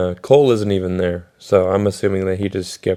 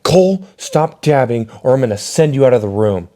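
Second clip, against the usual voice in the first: scolding teacher; 4 semitones higher than usual. Retold or imitated. Mocking the music teacher scolding Cole, stern. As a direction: play the strict music teacher warning a kid.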